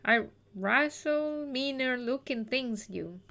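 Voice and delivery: slow, quiet, word by word; slow puzzled reread. Real, not acted. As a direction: sound it out, baffled. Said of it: "I don't know what she means".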